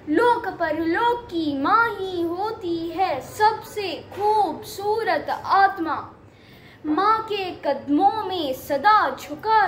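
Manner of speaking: measured, singsong verse delivery; poem recitation. Acted. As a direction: recite each line with drawn-out endings.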